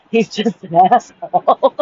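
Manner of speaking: slow words broken by laughter; laughing. Real, not acted. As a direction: laugh through the insult. Laughs while insulting him.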